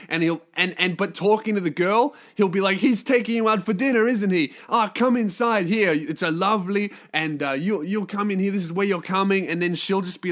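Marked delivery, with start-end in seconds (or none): 2.8-9.5 put-on pushy host with a light Italian accent; guilt-tripping Italian host. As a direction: usher them in with Italian-accented charm. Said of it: "he'll just start guilt tripping you".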